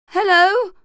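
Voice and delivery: high, loud piped squeak. Acted. Hungover narrator greeting Fran with a high pipe. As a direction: pipe it with your last energy. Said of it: "summoned all my energy to pipe".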